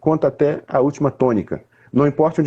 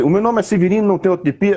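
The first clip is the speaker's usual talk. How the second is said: higher, with a lively rising tune; wrong way; 5 semitones higher, faster than usual. Shown as a demonstration. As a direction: sing it out too brightly, the way it shouldn't go. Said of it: "Ele não vai falar assim". (jeito errado, mais agudo e subindo)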